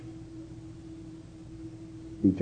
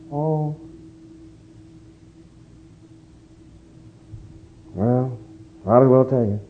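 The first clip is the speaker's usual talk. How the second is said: dejected husband; 3 dB quieter than usual. Acted. Husband confesses being fired.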